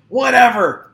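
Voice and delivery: loud, high give-up cry; exasperated whatever. Real, not acted. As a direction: throw up your hands vocally. Gives up on getting handle right.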